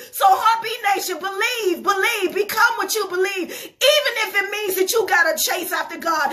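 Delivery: rally the church to believe; fervent exhortation. Acted. Sermon climax exhortation.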